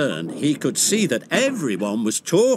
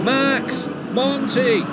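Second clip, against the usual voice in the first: higher calling voice; 11 semitones higher, much slower than usual. A narrator's reading. Kelly calling out to warn the trucks. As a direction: call across the yard to them. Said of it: "Kelly called".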